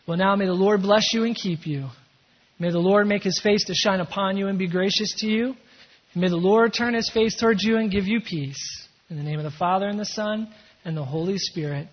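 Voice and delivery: measured blessing over a congregation; pastoral benediction. Real, not acted. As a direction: pronounce a formal blessing, phrase by phrase. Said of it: "pronounce that benediction over you".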